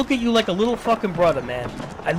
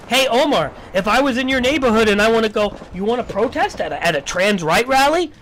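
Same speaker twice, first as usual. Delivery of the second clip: mock invitation; 3 semitones higher, 5 dB louder than usual. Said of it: "It's like".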